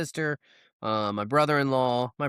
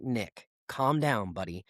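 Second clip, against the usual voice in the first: slow, soothing, trailing off softer; slow reassuring buddy voice; calming down; 3 semitones lower, 4 dB quieter, slower than usual. Retold or imitated. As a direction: settle a fretting friend gently. Calming anxious brother-in-law.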